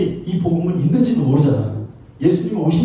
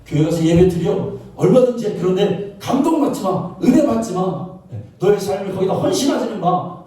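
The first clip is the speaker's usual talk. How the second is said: pitched-up permission with a catch; lightly acted tempter, higher voice; devil's deceiving advice; 4 semitones higher than usual. Devil permitting church but forbidding devotion, higher deceiving advice. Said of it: "라는 것이 마귀가 우리의 지식을".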